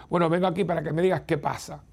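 quick, pushy "bueno, vengo aquí"; a hurried, confrontational opener to a talk; brusque demand. Retold or imitated. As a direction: demand answers impatiently. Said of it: "No es lo mismo".

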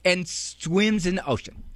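a hint of a kid's singsong; like a little kid. Shown as a demonstration. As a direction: repeat it the way a child would. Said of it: "say it like a little kid would say it".

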